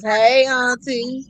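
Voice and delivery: slow, drawn-out greeting in a lightly voiced Black Panther style; a hint of a regal Wakandan hero. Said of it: "In, in my Black Panther voice".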